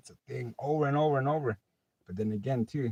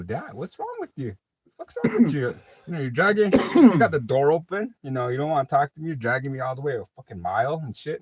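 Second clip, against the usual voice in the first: rising, louder angry pleading; angry at dad; 4 semitones higher, 8 dB louder than usual. Retold or imitated. Son confronting his dad in the truck, angry yelling. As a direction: confront the stubborn father hard.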